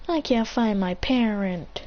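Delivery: put-on slow, subdued lost kid; mildly mournful, drawn out; sad. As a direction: say it slowly, a touch forlorn. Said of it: "he's kinda sad".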